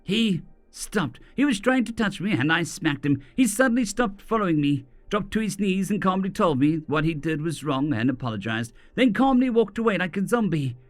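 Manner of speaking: yelled. Acted. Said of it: "she yelled".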